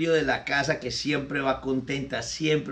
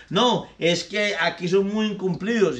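higher, fed-up maid quitting; indignant maid; 5 semitones higher than usual. Acted. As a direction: announce you're leaving in a high huff. Maid complains.

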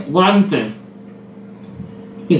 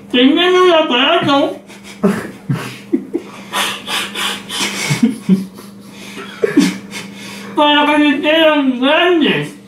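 marbles in mouth; 4 semitones higher, 3 dB quieter than usual. Real, not acted. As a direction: mouth stuffed full. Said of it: "no se te entiende nada".

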